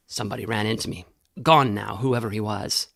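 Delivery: low, rough voice of a big man; gruff heavy man. A narrator's reading. Burly man reporting low to the others. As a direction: growl it low like a burly grave robber.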